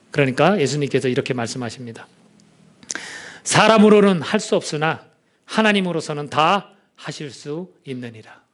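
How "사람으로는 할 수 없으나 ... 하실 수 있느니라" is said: slow, weighty words of Jesus; slow solemn quote. Acted. Pastor quotes Jesus to the disciples, slow and solemn. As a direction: lay each word down slowly.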